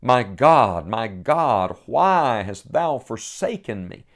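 retold cry, drawn out toward the end; anguished cry. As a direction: cry out in restrained anguish, stretching the question. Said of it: "a cry pierces the darkness".

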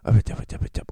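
hushed unvoiced murmur; whispered aside. Comic whispering about the woman in the lift. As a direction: drop to a secret whisper. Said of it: "hon typ säger någonting".

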